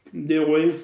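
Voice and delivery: talking with mouth full; words through a mouthful. Real, not acted. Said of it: "je sais qu'on doit pas m'en parler la bouche pleine".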